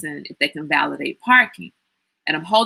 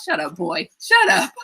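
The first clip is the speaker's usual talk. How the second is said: laughing shut up. Retold or imitated. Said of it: "all I could say to him".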